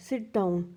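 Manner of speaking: Sit down with the pitch dropping firmly; falling command tune. Shown as a demonstration. Teacher demonstrates a command with falling intonation. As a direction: give it as an order, voice going down. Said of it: "command में तो ये हमारी down जा रही है".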